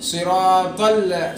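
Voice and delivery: slow صراط ال with thick "tol"; emphatic, elongated صراط ال; correct heavy taa. Shown as a demonstration. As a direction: round the ط heavily in صراط. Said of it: "تا ہے یہاں پہ".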